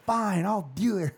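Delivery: high, slow mock grudging give-in; imitated mom. Mom giving in after the barrage, mock grudging voice. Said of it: "She's like".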